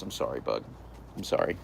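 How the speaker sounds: low and soft; soft apology. Real, not acted. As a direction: gently apologize.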